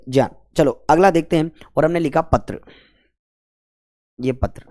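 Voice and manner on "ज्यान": ज्ञान said briefly as "jyaan", with j; corrected pronunciation. Shown as a demonstration. Teacher telling students what to say from today, "jyaan". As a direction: say ज्ञान with j, not g. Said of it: "आज के बाद क्या बोलेंगे".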